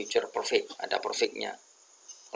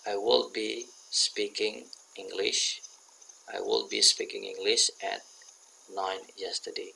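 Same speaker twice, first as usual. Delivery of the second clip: very slow, stretched words; slow model sentence; slower than usual. Shown as a demonstration. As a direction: drill it slowly twice. (diucapkan sangat pelan seperti latihan)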